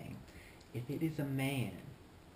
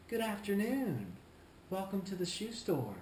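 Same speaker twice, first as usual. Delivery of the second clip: higher-pitched, self-assured shop greeting; confident greeting; 4 semitones higher than usual. Shown as a demonstration. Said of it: "With confidence".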